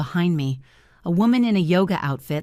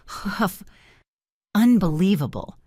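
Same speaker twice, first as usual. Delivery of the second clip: exasperated huff; 3 semitones higher than usual. Acted. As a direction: huff it in disgust. Annoyed customer huffs.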